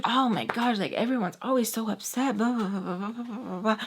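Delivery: mock grumbling that peters out; mocking blather. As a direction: mimic someone's nagging, letting it fade away. Mimicking his complaining in a retold quarrel.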